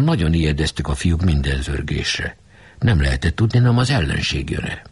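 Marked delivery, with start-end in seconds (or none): none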